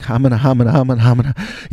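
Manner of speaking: mock tongue-tied stammer; nervous babbling. Nervous kid answering star in elevator, hammed-up babbling. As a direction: babble like a comic flustered kid. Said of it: "I'm so nervous because my father".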